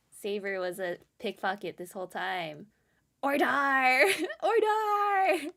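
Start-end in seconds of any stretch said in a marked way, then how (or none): 3.2-5.5 judge's raised call for order; mock-pompous courtroom call.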